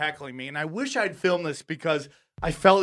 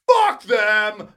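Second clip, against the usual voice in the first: drawn-out, mildly raised yell; defiant retold shout; 3 semitones higher than usual. Comic retelling his reply to a worried friend, defiant. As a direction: throw it out defiantly, stretching both words.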